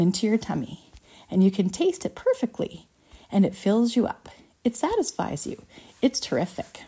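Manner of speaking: lightly voiced eager showman; a touch of rapturous salesmanship; enthusiastic inventor. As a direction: marvel at it, lifting key phrases. Voices Wonka marvelling at gum.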